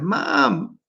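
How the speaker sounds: high-pitched joking call; calling out to mom. Retold or imitated. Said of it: "I didn't scream out loud".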